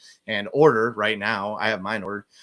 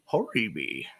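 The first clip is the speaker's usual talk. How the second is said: put-on "Holy Bee" said as "Hori Bee" in a light Japanese accent, the l turned to r; 4 dB quieter, slower than usual. Host imitates a friend's phone greeting, light Japanese accent. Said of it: "he answers in a Japanese accent".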